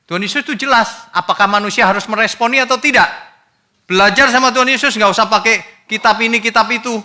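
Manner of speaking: high, loud, forceful rebuke; preaching at full force; fiery preaching. Acted. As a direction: thunder the correction from the pulpit. Preacher urges learning from Jesus.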